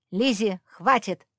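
loud sharp order; loud angry command. Acted. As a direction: bark the order at her. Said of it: "приказал Антуан".

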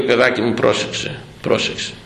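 low, gently voiced elder's advice; loving counsel. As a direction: imitate an elder tenderly cautioning his child. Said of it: "τον έπαιρνε με αγάπη και του λέγε".

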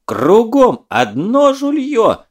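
loud, high, drawn-out yell; wailing yell. Acted. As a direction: howl it at the cheats. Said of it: "вопил Лёва".

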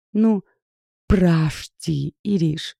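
deliberately distort the voice, squeaky. A narrator's reading. Woman squeaking at her friend in a disguised voice. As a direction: squeak it out in a put-on voice. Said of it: "Намеренно исказив голос, пискнула я".

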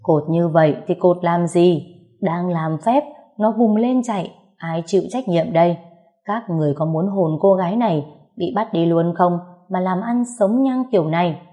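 shaman tongue-lashing the family; scolding shout. Acted. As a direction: berate the helpers for loose knots. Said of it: "bà ta quát lớn".

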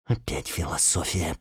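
soft inner grumble through gritted teeth; through clenched teeth. Acted. Alya, annoyed, thinking to herself: soft gritted-teeth grumble. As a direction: mutter it to herself, jaw tight. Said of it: "подумала, сжав зубы".

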